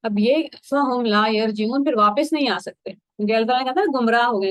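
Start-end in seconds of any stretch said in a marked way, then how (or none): 0.7-1.8 slow, measured recitation of the Arabic verse; slow Quran recitation. Shown as a demonstration. Teacher recites the verse to listeners, slow and measured. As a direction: draw the verse out slowly, word by word.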